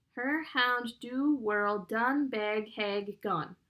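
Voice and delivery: "Her hound do whirl done bag hag gun" slowly, a gap after every word; each word separate. A narrator's reading. Lavinia reads aloud, "Her hound do whirl done bag hag gun" word by separate word. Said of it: "stated each word as its own island".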